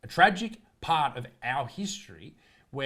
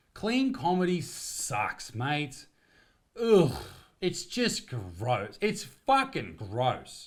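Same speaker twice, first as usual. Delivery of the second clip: drawn-out disgust; much slower than usual. Real, not acted. Voicing disgust at clean comedy.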